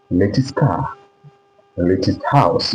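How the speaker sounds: LATEST with a clear T and an i-like second vowel; British T. Shown as a demonstration. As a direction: say LATEST as lay-tist, T fully sounded. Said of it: "You be using latest".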